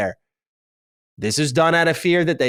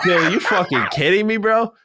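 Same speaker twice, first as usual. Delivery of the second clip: higher-pitched mock exasperation; acted disbelief; 7 semitones higher than usual. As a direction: voice a stunned employee's protest. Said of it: "He's like".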